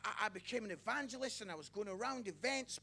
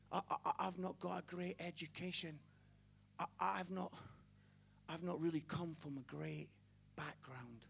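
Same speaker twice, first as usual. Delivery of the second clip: humble self-doubter; 2 semitones lower than usual. Retold or imitated. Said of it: "somebody today who maybe talks like this".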